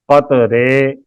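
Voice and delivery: "قطرے" as qat-RAY; model vowel. Shown as a demonstration. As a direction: clear long ay ending on "قطرے". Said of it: "کی طرح اس کی را کو پڑھیں گے".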